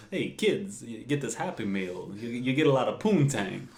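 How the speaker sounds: lightly voiced celebrity impression; Christopher Walken. Walken selling kids a Happy Meal, joking impression. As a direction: pitch it to kids in a mock celebrity voice. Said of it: "I lost my Walken accent".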